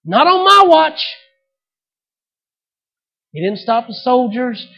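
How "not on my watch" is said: higher, louder, slow and defiant; loud, high father's refusal; defiant declaration. Retold or imitated. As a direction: declare it like a guardian standing firm. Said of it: "step in ... and say".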